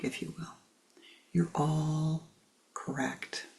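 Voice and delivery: soft, hushed old owl, lightly voiced; wise owl. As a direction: gently settle their quarrel from above. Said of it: "and says".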